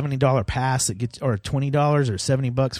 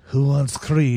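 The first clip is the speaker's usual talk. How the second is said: mock catchphrase; slower than usual. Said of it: "Is that what you say?".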